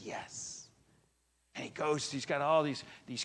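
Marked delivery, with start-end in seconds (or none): 0.0-0.7 an excited breathy whisper of discovery; whispered yes. Retold or imitated. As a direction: hush out a thrilled yes.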